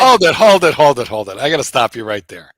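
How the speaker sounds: loud, emphatic halt that talks right over someone; loud interruption. Real, not acted. Host stopping the co-host mid-answer, loud interruption. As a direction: cut in loudly, urgently repeating.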